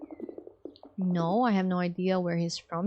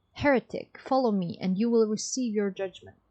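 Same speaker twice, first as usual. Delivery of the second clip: raised, commanding pronouncement; stern zealot. Acted. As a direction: order him to face judgment.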